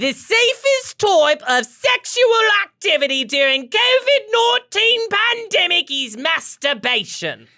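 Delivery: bad British accent, falsetto-high, loud, belted. Reading a passage aloud for the other speaker: Dick Van Dyke British accent. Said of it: "So here's my British accent".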